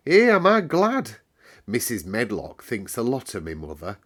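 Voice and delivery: put-on a cheerful Yorkshire servant girl telling the weather; Yorkshire maid Martha. Housemaid Martha explains the moor weather to Mary, lively Yorkshire lass. Martha about her mother.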